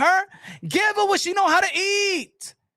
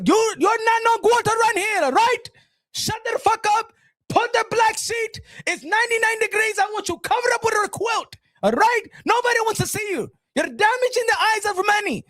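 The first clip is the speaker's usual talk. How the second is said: high-pitched scolding tirade; mock-outraged shouting; berating rant; 3 semitones higher than usual. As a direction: shut the objection down hard. Acted tirade cutting her off.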